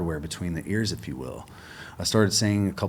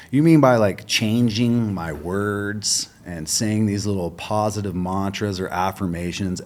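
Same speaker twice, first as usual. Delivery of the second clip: louder, then drawn-out slow scorn; mocking; 5 dB louder, slower than usual. Himself, ridiculing affirmations to Jeremy, loud slow mockery. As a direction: spell out the silly idea slowly.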